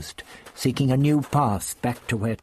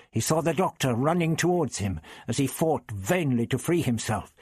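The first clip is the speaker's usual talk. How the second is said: normal talking voice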